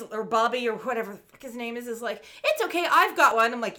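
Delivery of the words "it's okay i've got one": higher, louder mock kid voice; cartoon boy. Boy reassuring the adult about a compass, mock cartoon boy. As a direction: pipe up loudly as the cartoon boy.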